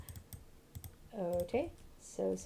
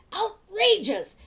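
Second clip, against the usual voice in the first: high, loud, slow outrage; indignant outburst; 10 semitones higher, 9 dB louder, much slower than usual. Acted. Old man outraged at the shopkeeper's prices, loud and slow. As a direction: drag it out, scandalised.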